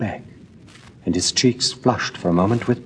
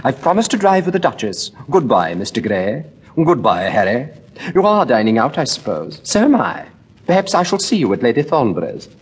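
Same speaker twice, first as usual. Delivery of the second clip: higher, quick, chattering lady's voice; Lady Henry chattering nervously to Dorian, voice pitched higher; fluttery society lady; 5 semitones higher than usual. Acted. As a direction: rattle on like a flustered hostess.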